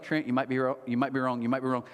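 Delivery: quick, low, run-together repetition; rapid self-reminder. Retold or imitated. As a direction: rattle it off under the main talk. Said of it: "three times in my head real fast".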